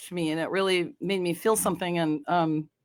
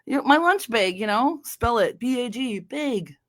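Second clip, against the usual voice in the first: put-on Fargo accent; 3 semitones higher than usual. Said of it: "the accent like Fargo".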